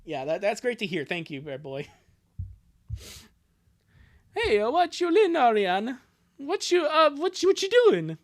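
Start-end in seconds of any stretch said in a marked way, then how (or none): 4.4-8.2 high, loud, stumbling greeting; hesitant brother. Acted. Brother checking what sister is doing, awkward high voice. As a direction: open awkwardly as a cartoon brother.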